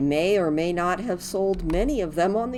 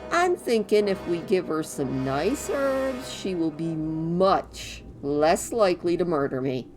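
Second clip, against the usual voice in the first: cheerful little helper, quick; christmas elf; 6 semitones higher than usual. Acted. Voices Gidwin's dialogue.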